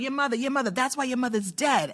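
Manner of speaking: lightly hammed-up mock taunt; mocking imitation. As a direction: mimic a repeated jeer, voice lifted. Mimics the woman's taunt.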